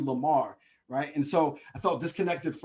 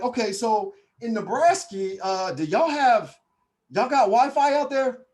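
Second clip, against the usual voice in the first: mocking country drawl, slow then rising high and loud; country accent; 8 semitones higher, 6 dB louder, slower than usual. New Yorker asking about Wi-Fi out there, mock country accent. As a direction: ham up a country accent, stretching it out. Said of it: "country on me".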